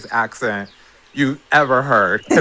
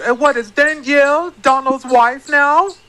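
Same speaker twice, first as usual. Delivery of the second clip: mocking imitation; 13 semitones higher, 5 dB louder than usual. Mocking Han's question.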